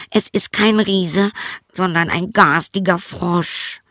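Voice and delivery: put-on a frightened girl answering; princess. Princess answering her father, high and frightened.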